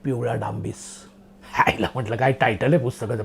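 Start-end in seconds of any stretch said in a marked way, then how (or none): 0.0-0.8 low, hushed book title; ominous title reading. Acted. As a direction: announce it like a suspense thriller. Reads old thriller book title.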